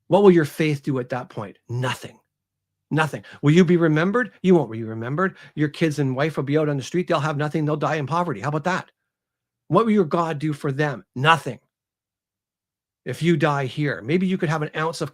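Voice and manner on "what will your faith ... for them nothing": taunting questions with punched answers; acted bitter tirade, moderately heated; emotional outpouring. Author voices Aramis berating the priest, heated and taunting. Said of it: "it's a real emotional outpouring".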